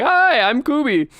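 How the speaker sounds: high, bashful mock hello; shy greeting. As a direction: imitate a flustered, shy introduction. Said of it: "I was too shy to say hi".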